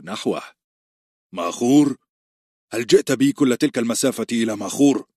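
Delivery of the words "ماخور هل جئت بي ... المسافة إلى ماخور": angry. Acted. Ned confronting Littlefinger at the brothel door, angry and raised. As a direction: snap it out, outraged at being led to a brothel. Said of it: "وقال غاضبا".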